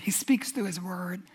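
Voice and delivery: breathy hushed whisper. Real, not acted. Preacher whispering to the congregation about God's word, hushed. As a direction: let it fall to a whisper.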